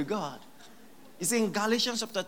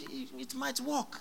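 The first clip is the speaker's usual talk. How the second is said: mock hesitant believer; 3 semitones higher, 7 dB quieter than usual.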